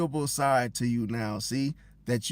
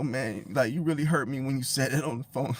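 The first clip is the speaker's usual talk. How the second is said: mildly faked tearful complaint; fake hurt; 4 semitones lower than usual. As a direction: act hurt, but only a little. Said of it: "you start crying and shit".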